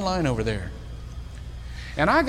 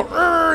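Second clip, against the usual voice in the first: grunting growl; 9 semitones higher, 4 dB louder than usual. Retold or imitated. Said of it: "kinda growl".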